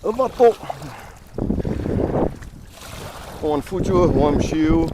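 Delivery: high excited call-out. Real, not acted. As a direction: hype it up, let's go. Setting off, hyped call.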